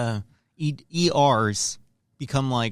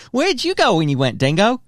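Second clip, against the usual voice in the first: cheeky Aussie mate voice, higher and bright; Australian accent; 4 semitones higher, 4 dB louder than usual. Pretend. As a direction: ask it like a true blue Aussie. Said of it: "you're Australian?".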